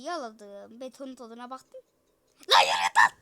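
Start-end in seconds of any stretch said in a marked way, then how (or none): 2.5-3.1 deep growl. Pretend.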